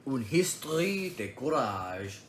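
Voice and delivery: slow French title, American accent. Shown as a demonstration. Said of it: "The dumbass American".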